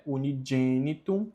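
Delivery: "unigenitum" with g as "djé", "uni-djé-nitum"; soft G. Shown as a demonstration. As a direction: say the g of "unigenitum" like the j in jet. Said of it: "o G com E tem som de G". ("unigenitum" com som de djé)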